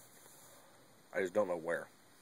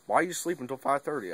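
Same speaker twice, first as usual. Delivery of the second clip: raised dad voice; 6 semitones higher than usual. Retold or imitated. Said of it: "He's like".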